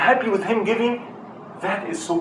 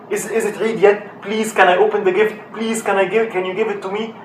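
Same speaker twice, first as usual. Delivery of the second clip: put-on kids begging; 3 semitones higher, 6 dB louder than usual. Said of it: "they kept doing is what".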